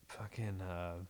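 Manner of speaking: whispered aside, no voice; hushed, unvoiced question. Real, not acted. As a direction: drop to a breathy whisper. Whispered aside mid podcast.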